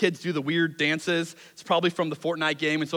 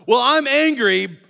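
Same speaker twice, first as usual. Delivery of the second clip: 1 defensive reply; 8 semitones higher, 8 dB louder, slower than usual. Pretend. Voicing congregation's defensive reply.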